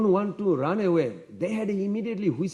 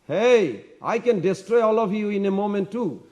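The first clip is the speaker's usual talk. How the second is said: defiant threat; 4 semitones higher, 4 dB louder than usual. Retold or imitated. Lakshman turns on the mocking kings.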